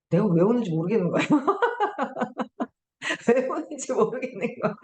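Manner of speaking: laughing through the words; real amused laughter. Real, not acted. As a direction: chuckle while admitting confusion. Laughing at own tears.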